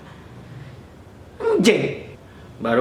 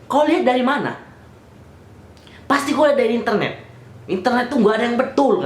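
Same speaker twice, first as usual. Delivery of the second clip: higher-pitched, mildly angry mimicry; imitated snapping officer; 5 semitones higher, faster than usual. Officer scolding the person who asked, mock snapping. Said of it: "si bapak tadi yang bentak".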